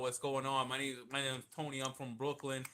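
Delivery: loud, imitated Brooklyn guy; brash Brooklyn impression; Tony's Brooklyn accent. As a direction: introduce yourself in mock Brooklyn accent. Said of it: "you got, you got the accent".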